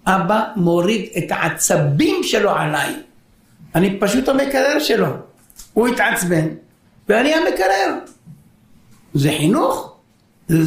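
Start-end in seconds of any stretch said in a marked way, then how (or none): 0.0-8.0 put-on child's voice rising to a high, indignant whine; son's complaint. Son protesting to his angry father, mock whiny. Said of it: "מה הוא אומר?".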